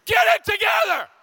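loud high barked command; coach yelling. Retold or imitated. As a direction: yell it like a furious coach. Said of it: "someone who will yell at you".

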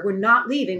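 not leaning hard and falling in "We're not leaving"; "not" pressed down, flat refusal; firm stress on not. Retold or imitated. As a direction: plant your feet on the word not. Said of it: "I said".

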